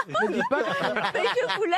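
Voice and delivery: high slow laughing. Real, not acted. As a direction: laugh while backing out. Embarrassed laughing refusal.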